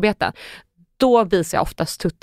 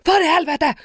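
high-pitched mock-angry swearing; exasperated outburst; 8 semitones higher than usual. Naked woman caught by the neighbours in the hall, exasperated.

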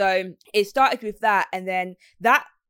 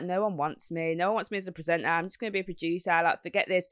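self-deprecating; 2 semitones lower, 5 dB quieter than usual. Retold or imitated. Presenter recalling putting herself down, softly self-deprecating. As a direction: lightly imitate putting yourself down. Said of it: "I'd put myself down".

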